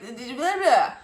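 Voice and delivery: exasperated blah-blah noise; wordless fed-up splutter; frustrated babble. Real, not acted. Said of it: "So frustrating".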